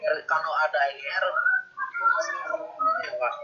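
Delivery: choppy, breaking-up call audio; glitching audio. Real, not acted. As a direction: voice cutting in and out over bad signal. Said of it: "Nggak jelas, Pak, suaranya, Pak".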